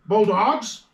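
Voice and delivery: loud, high cheer of the team name; rallying shout. Real, not acted. Picker cheering his college team's name, rallying shout.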